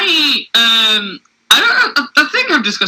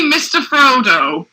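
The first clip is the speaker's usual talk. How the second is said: West Country accent; slower than usual. Shown as a demonstration. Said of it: "in your normal accent".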